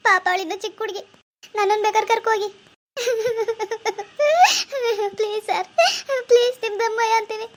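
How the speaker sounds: loud desperate begging, close to sobbing; tearful pleading. Acted. Mother begging the police officer not to take her daughter, tearful loud pleading. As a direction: plead through tears at his feet.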